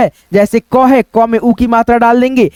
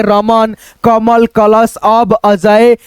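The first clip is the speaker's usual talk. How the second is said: slow demo; much slower than usual. Shown as a demonstration. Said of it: "ऐसे करके है ना".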